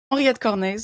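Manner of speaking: name said the French way; French accent. Shown as a demonstration. Guest introduces herself by name, in a French accent. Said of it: "with a French, uh, accent".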